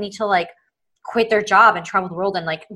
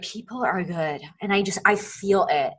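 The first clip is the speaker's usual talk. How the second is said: sincere conviction. Retold or imitated. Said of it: "it's another thing".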